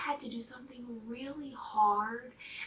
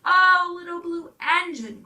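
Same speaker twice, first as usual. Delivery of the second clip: high, loud, pleading cry; crying dolls; 7 semitones higher, 11 dB louder than usual. Acted. Dolls crying out to the little blue engine, high and loud. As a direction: call out to her in desperate hope. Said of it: "cried the dolls and toys".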